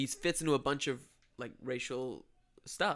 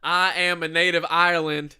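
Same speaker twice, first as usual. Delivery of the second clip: louder, badly faked Irish accent; a wannabe Irish voice, half-hearted; fake Irish accent; 6 dB louder than usual. A co-host badly faking an Irish accent. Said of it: "my Australian Ireland wannabe".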